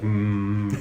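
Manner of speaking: imitated buzzing hum; long droning "mm"; tattoo needle buzz. Imitates tattoo felt through rib cage.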